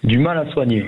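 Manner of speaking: raspy voice from a cold; hoarse voice. Real, not acted. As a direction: speak through a hoarse, sore throat. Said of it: "pour ma voix éraillée".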